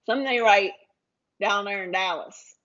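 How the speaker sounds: put-on a barely-there, half-hearted Dallas accent; a hint of a Dallas accent, playing for laughs; bad Dallas accent. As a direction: try on a Dallas accent lightly, mostly in your own voice. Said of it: "that's not a good Dallas accent either".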